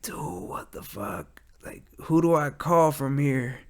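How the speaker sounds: whispered panic, slow and breathless; panicked whisper. Retold or imitated. Dispatcher panicking under his breath at a fatal call.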